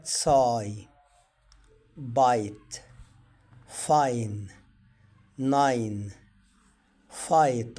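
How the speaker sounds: بايت, فاين and ناين each said with a clear ai; modeling the i sound as ai. Shown as a demonstration. Teacher models words for the class, clear. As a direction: say each word alone so the ai can be heard. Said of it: "نطق الكلمات واختلافاتها".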